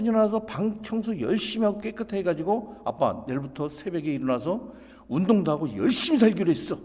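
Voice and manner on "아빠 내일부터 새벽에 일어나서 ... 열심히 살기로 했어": lightly voiced, self-assured son; confident announcement. Son announcing a new resolution to dad, confidently. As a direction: declare the plan boldly, building in volume. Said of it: "당당하게".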